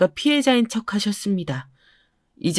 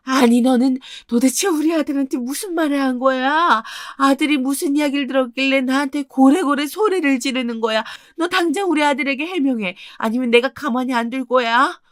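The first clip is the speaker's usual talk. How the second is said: higher-pitched shrill-free scolding mother-in-law voice; higher, accusing mother-in-law on the phone; angry mother-in-law; 5 semitones higher than usual. Acted.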